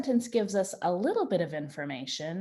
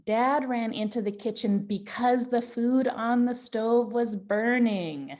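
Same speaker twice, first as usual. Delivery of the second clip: reading aloud; 2 semitones higher, 3 dB louder than usual. Shown as a demonstration. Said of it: "So I added".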